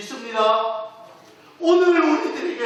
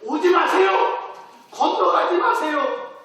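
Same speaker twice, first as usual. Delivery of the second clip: urgent warning; 6 semitones higher, 3 dB louder than usual. Shown as a demonstration. Warning like a red light.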